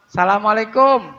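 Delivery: Assalamualaikum clipped fast as salamaleikum; wrong clipped. Shown as a demonstration. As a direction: rush it as salamaleikum. ("Assalamualaikum" cepat jadi salamaleikum)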